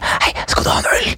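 hushed voiceless exchange; imitated whisper. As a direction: whisper it like an aside in the audience. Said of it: "at de kan hviske noe". (hviskende liten samtale)

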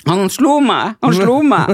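put-on tattle on him like a wronged child; mock accusing. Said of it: "de bare". (lys, sutrete falsk anklage)

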